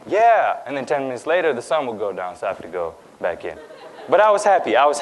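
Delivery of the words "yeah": put-on high, loud eager child's yeah; delighted kid accepting; eager yes. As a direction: jump at the invitation, pitched way up. Shy child finally invited to play.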